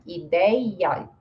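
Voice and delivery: "Ideia" split as ee-day-ya; hiatus. Shown as a demonstration. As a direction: separate the final vowels of "Ideia". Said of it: "nesse caso é um hiato".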